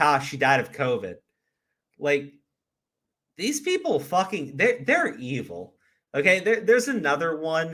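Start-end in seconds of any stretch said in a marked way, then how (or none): none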